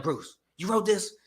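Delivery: loud, high mock outburst; indignant protest. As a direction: throw a comic on-set tantrum. Acting out his refusal on set.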